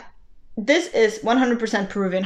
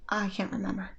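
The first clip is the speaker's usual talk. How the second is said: whispering; 11 dB quieter, faster than usual. Real, not acted. Whispered aside about the book title.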